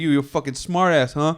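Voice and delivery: lightly put-on New York accent; a touch of New York accent in a retold challenge; mock New York. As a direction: imitate a challenging New Yorker. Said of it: "He got real New York".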